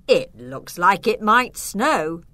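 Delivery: cheerful hope of snow, unhurried; happily. Acted. Dad cheerfully telling the family it might snow, happy. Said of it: "Dad said happily".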